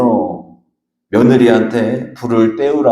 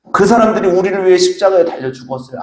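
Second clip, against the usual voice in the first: rhetorical challenge; 6 semitones higher, faster than usual. Real, not acted.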